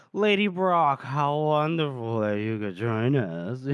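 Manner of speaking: drawn-out, lightly hammed-up officer; mock-courteous welcome, falling away slowly; voiced officer's greeting. Voices Meade greeting an unwelcome lady.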